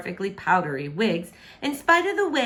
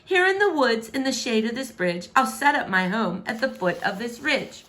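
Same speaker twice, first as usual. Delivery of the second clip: defiant princess; 3 semitones higher than usual. Acted. Princess declaring she'll stay.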